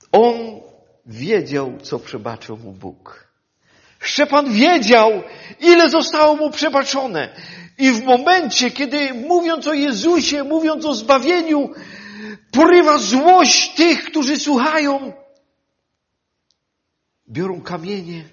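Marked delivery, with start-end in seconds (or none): 4.0-15.1 loud, higher and slowing preaching; forceful pulpit narration; preaching at full force. Acted. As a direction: hammer home the crowd's anger.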